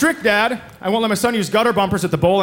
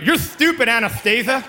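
put-on lisping kid; 4 semitones higher than usual. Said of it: "he has a lisp".

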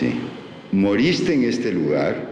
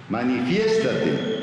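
commanding call; 5 semitones higher, slower than usual. Real, not acted. Summoning the spirit again.

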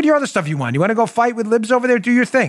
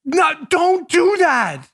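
raised plea; 8 semitones higher, much slower than usual. Real, not acted. Pleading with Hollywood.

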